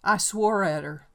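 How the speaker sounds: put-on loud, high, intense old man's outburst; a lonely old man confessing in anguish; Enoch's confession. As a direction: pour out the confession in a rising frenzy.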